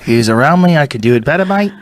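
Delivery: lightly Australian, ending on mate; mock Australian with a lift at the end; Adam Green impression. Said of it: "their voice goes up".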